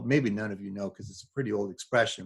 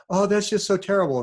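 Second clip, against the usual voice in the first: higher, louder, hammed-up shocked sigh over so; mock horror; 8 semitones higher, 5 dB louder than usual. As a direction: overplay the prissy outrage. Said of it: "you will see them go".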